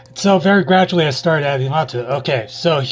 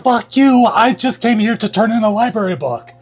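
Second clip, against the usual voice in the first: mock villain; 7 semitones higher than usual. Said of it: "he just goes".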